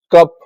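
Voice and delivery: कप with a short "uh" vowel. Shown as a demonstration. Teacher giving an example of U, short अ sound in कप. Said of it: "अ बोला जाता है".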